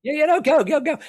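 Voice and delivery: high, loud rush to hand over the floor; excited urging. Real, not acted. Urging host to go ahead.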